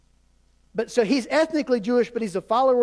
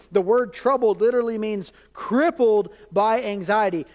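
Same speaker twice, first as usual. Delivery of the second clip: normal talking voice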